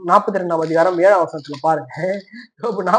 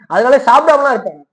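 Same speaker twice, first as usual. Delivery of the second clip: higher, louder emphatic line; emphatic outburst; 5 semitones higher, 5 dB louder than usual. Real, not acted. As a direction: hit it hard for the congregation. Preacher emphatic confession. (உரத்த உணர்ச்சியுடன்)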